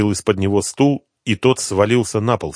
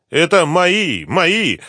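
high, louder pleading cry; near tears; 10 semitones higher, 6 dB louder, much slower than usual. A narrator's reading. Addict pleads for his money, nearly tearful. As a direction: claim it desperately, close to crying. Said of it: "Лунатик чуть не плакал".

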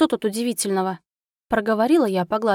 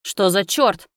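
swearing; 4 dB louder, slower than usual. Acted. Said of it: "выругался прокурор".

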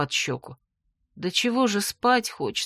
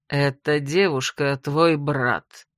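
slow, lower, poisonous sneer; venomous; 6 semitones lower, slower than usual. Acted. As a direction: drip venom on every word. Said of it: "ядовито произнёс Сеп".

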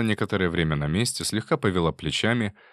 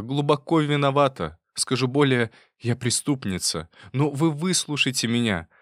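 pleading confession; 3 semitones higher than usual. Acted.

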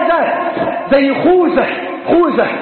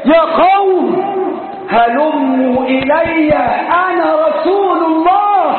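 calling out; 2 semitones higher than usual. Retold or imitated. Prophet calls his scattered companions back to him, retold calling out. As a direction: call to the people in long, raised, measured words. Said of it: "فينادي النبي بأعلى صوته".

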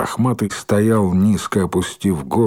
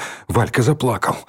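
usual speaking voice

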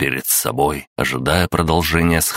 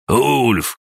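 sharp call, much higher; shout; 8 semitones higher than usual. A narrator's reading. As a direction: call out to warn him. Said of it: "крикнул Эйнар". (резкий окрик, гораздо выше)

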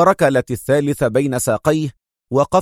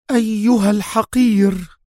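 much higher, outraged insult; angry cry; 9 semitones higher than usual. Acted. The major insulting the traitor inspector, high and outraged. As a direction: spit out the insult. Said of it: "وهي تهتف".

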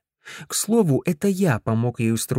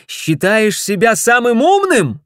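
loud, higher furious yell; 10 semitones higher, 8 dB louder than usual. Acted. Ted yells at Griff, loud and higher. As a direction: scream it at him. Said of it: "заорал я".

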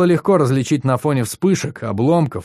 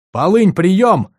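calling out; 8 semitones higher, 6 dB louder, much slower than usual. Acted. Hailing the corvette over comms.

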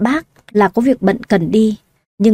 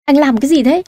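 higher, startled panicked question; a pitched-up gasp of alarm; alarmed cry; 5 semitones higher than usual. Acted. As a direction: blurt it out in sudden fright. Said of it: "Cô hốt hoảng nói to".

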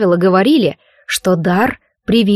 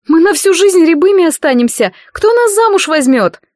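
desperate outcry; 8 semitones higher, 4 dB louder than usual. Acted. Marianna protesting the burns.

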